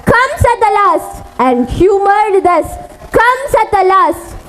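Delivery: measured Shakespeare monologue, phrase by phrase; dramatic recitation. Acted. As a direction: recite it as a king's tragic speech.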